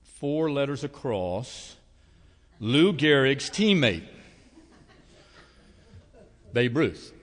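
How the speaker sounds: slow, loud, drawn-out puzzling aloud; slow crossword musing. Retold or imitated. Janet working her crossword in church, slow and musing. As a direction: spell out the clue slowly, half laughing. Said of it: "and she goes".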